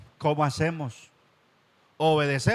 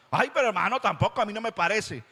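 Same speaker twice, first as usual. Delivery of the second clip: higher, pleading objection; whiny church member; 4 semitones higher than usual. Retold or imitated. Preacher mocks a member who dislikes the word, whiny. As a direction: mimic a complaining believer.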